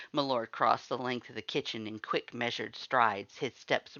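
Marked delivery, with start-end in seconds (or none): none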